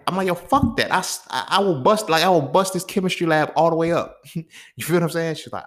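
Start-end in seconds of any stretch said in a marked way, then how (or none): 0.3-4.2 high-pitched, mock-heated refusal; retold defiance. Telling homegirl he will bust up the chemistry lab, defiant. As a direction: refuse to back down, voice jumping up. Acted hothead reply to friend.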